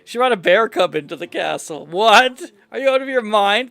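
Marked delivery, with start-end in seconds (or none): 1.9-3.7 a loud, sharp shocked question; shocked what. Acted. Queen hears of the bear cub, loud shocked question. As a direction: blurt it out in disbelief.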